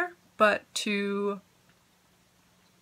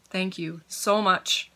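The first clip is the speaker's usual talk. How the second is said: heartfelt thanks; much slower than usual. Real, not acted.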